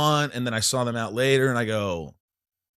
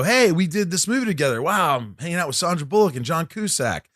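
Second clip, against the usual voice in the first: excited greeting; 5 semitones higher than usual. Retold or imitated. Acts out his awkward excited greeting.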